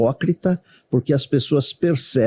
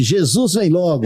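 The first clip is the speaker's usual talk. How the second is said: laughing pilot announcement; 6 semitones higher than usual. Pretend. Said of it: "e ainda eu diria o seguinte".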